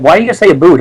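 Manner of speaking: mock "boot" as a stereotyped Canadian about; imitating a questioner saying "boot" for about; mimicked Canadian "boot". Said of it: "people come and go like".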